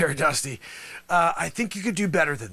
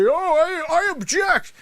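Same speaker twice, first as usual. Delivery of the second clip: mock objection; 11 semitones higher, 5 dB louder, slower than usual. Mocking the opposing lawyer.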